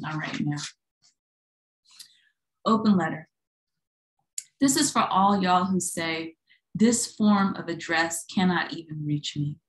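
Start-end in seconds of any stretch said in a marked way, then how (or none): 2.7-9.6 measured poem reading, firm line openings. Acted. Poet reads Open Letter to a live audience, poem reading. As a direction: read it out in deliberate, separated phrases.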